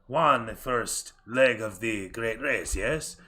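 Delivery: slow, measured servant's voice; formal aide. Acted. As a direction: speak each word deliberately for your master.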